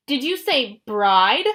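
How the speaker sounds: slow, loud demand; loud slow incredulous demand. Acted. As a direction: insist on an answer. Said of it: "Clarice demanded".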